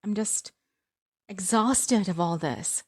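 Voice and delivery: slow, tearful and fragile; voice cracking. Acted. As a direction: near tears, voice cracking on the words. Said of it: "my voice cracked".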